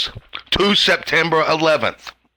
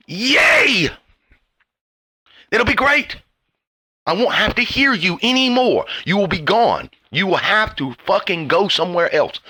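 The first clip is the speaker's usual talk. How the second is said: gleeful cheer; 4 semitones higher than usual. Retold or imitated. Ranting vlogger voicing his inner hope, gleeful and high. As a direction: cheer like the end of the world is a party. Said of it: "there's a piece of me that says".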